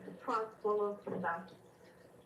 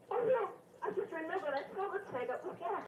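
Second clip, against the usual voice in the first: retold alarm; 8 semitones higher, faster than usual. Caller retells panic after crash.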